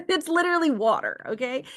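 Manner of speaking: high, laughing disbelief; real giggly amusement; amused laughing. Real, not acted. Laughing at her own example.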